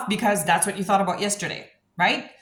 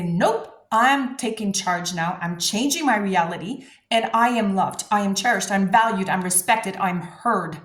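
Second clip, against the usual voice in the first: defiant affirmation. Shown as a demonstration.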